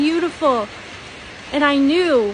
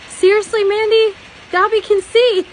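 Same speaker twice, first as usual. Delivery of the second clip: sarcastic joke; 6 semitones higher, 4 dB louder than usual. Retold or imitated. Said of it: "a sarcastic, funny thing".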